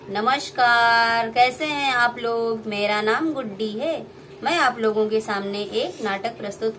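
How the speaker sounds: hint of a puppet announcer; puppet host Guddi. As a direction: greet the audience as a cheerful puppet. Puppet Guddi greets audience.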